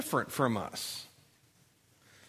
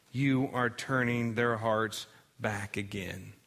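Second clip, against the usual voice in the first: Elijah's prayer; slower than usual. Retold or imitated. Elijah praying on the mountain, slow and earnest. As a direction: plead with God slowly and solemnly. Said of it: "And he prays to God".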